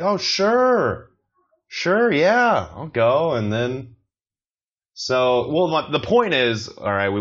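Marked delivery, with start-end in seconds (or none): 0.0-3.3 eager yes. Retold or imitated. Eager acceptance, high pitch.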